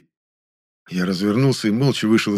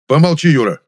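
higher, louder snapped shush; sharp hush; 6 semitones higher, 7 dB louder than usual. A narrator's reading. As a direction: cut him off sharply. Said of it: "цыкнул у него Большаков".

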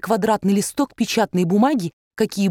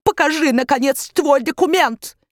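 put-on demanding accented baron; 7 semitones higher than usual. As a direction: insist impatiently. (высокое требование с акцентом)

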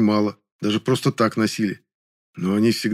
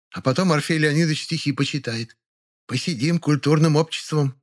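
high housewife voices in kitchen gossip; chatty neighbour women; 5 semitones higher than usual. Acted. Neighbours brag and invite to tea, self-important. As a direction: play proud, sociable matrons in raised pitch.

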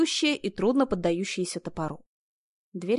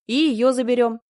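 reassuring; 4 semitones higher, 6 dB louder than usual. A narrator's reading. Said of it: "заверила я".

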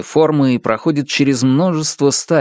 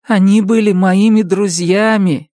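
tender sorrow; 9 semitones higher, 4 dB louder than usual. A narrator's reading. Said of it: "баюкая птиц в руках".

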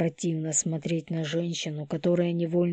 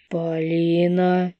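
sharp warning call; 6 dB louder, slower than usual. Acted. Hero cuts her off sharply.

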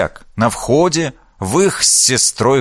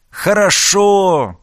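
delighted exclamation; 8 semitones higher, much slower than usual. Acted. Нырнул в пруд с разбегу.

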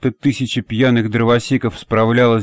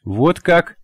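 презрительно; 6 semitones higher than usual. A narrator's reading. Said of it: "презрительно сощурилась".

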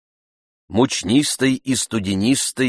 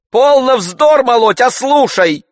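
much higher, louder, slow harangue; master's higher, louder tirade; pathetic lecture; 11 dB louder than usual. A narrator's reading. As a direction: lecture him theatrically. Master silencing servant.

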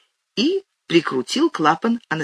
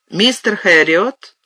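slow, louder, a firm schoolteacher's command; mild commanding call, slow and louder; 4 semitones higher, 5 dB louder, slower than usual. Acted. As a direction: summon him like a former teacher calling a pupil. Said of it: "скомандовала она".

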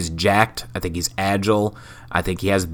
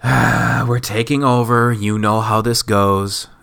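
lazy Kevin Nash; slower than usual. Retold or imitated. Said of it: "Kevin Nash came out with it just like".

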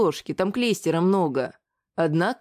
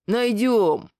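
confident dwarf bass. Acted. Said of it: "уверенно пробасил гном".

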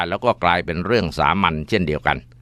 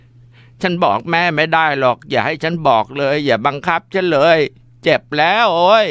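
high, tearful begging, rising to a louder wail of pain; crying plea; 8 semitones higher, 3 dB louder than usual. Acted. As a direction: beg through sobs as the blows land. Daughter pleading while being beaten.

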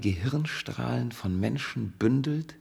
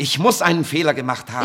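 insistent; 7 dB louder than usual. Acted. Scientist insists against her doubt.

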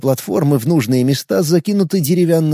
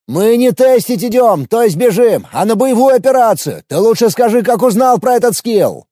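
yelling while running; 7 semitones higher, 4 dB louder than usual. A narrator's reading.

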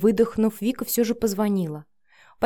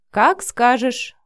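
slow, higher-pitched indulgent agreement; smiling agreement; 4 semitones higher, 5 dB louder, much slower than usual. A narrator's reading. Matvey obeying his daughter's tea order, smiling. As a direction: give in happily through a broad smile. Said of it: "Матвей расплылся в улыбке".

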